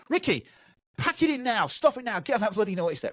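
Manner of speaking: high-pitched exasperated parent, acted out; scolding parent. Parent telling off a kid for the naughty step, high mock scolding.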